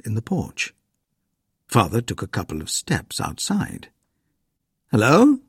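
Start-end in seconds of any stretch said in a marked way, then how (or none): 4.9-5.4 a mild call into the dark, higher. A narrator's reading. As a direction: call out toward the porch. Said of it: "he called".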